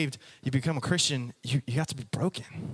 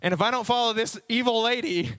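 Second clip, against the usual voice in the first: dog thinking aloud. Acted. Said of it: "'Cause he's like".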